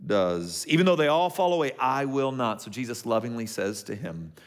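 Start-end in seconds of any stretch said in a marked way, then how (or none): 0.7-2.6 hammed-up brash Peter; brash boast. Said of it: "Peter does what he so often does".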